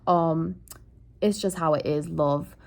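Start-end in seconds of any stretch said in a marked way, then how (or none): 1.2-2.6 lightly hammed-up British accent; mock British accent. Shown as a demonstration. Still doing British for her viewers, lightly. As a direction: keep up a bad British accent. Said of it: "I do go British".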